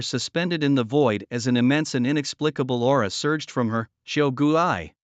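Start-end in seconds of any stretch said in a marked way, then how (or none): 4.0-4.9 hesitant, understated dread; mildly uneasy narrated stammer. A narrator's reading. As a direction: break off on "I", pause, then restart. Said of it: "Fong Siki stammered".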